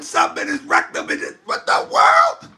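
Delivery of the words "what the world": high, slow, stunned what-the-world; shocked cry. Real, not acted. Host stunned by what a caller said, high drawn-out cry. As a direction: stretch it out in a high shocked squeal.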